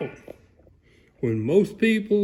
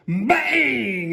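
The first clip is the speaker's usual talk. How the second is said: mock door bang; 7 semitones higher than usual. Storyteller to child, imitating the slamming door. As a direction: slam the word out like a door.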